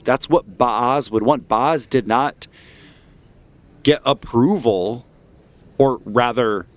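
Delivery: deliberate, emphatic orator with measured pauses; rally the crowd against the church; speech-making, key words drawn out; impassioned dissenter. Acted. GM voices agitator in the crowd.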